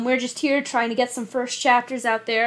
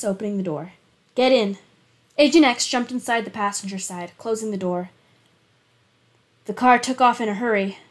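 steady, even reading of a thriller chapter; story narration. A narrator's reading. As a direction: read it like an audiobook narrator. Reads a thriller chapter aloud.

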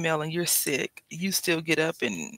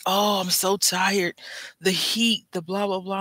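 mock tired husband; 3 semitones higher, 3 dB louder than usual. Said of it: "he's like".

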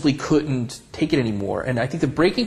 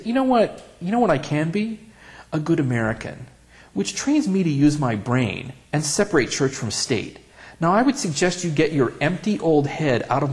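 retold comeback; 3 semitones higher than usual. Retold angry comeback to lady.

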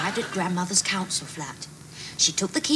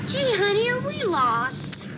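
put-on American accent; 14 semitones higher than usual. American wife in car.

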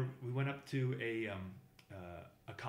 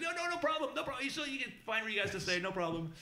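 hint of a reassuring mother; 11 semitones higher than usual.

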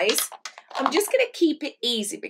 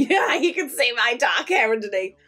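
laughing whisper; 3 dB louder than usual. Real, not acted. Laughing at her own hair.

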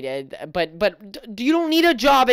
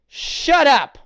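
higher, whiny shut up; mock hurt retort; 6 semitones higher, 4 dB louder than usual. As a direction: whine back wounded. Austin hurt by insult, acted.

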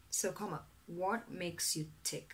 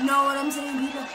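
loud rally call to the crowd; shouted; 4 semitones higher, 12 dB louder, faster than usual. Acted. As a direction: yell it out to the people. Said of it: "practicing my campaign speech".

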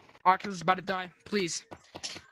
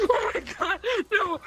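loud laughing no no no; laughing in real panic; panicked laughing; 3 semitones higher, 5 dB louder than usual. Real, not acted.

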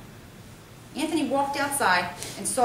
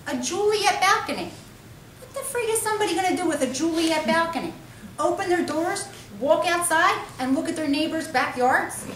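loud incredulous rant; riled-up city guy, disbelieving; ranting brother; 6 semitones higher, 3 dB louder than usual. Acted. Brother ranting about job.

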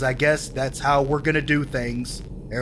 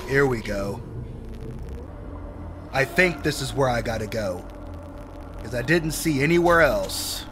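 normal talking voice

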